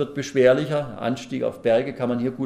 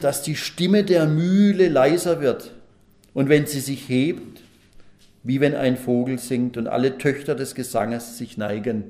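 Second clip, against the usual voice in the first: slow, measured verse reading; scripture reading; 3 dB louder than usual. Acted. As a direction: open raised and stretched, then level out through the verse.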